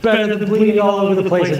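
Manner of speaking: talking with toilet paper stuffed up one nostril; nose plugged with tissue, a bit blocked. Real, not acted. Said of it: "I'll be lecturing with toilet paper hanging out of my nose".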